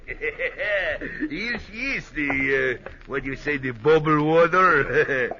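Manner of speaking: chuckling through the words; laughing. Acted. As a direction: laugh as you show off the bottle. Host laughs serving champagne.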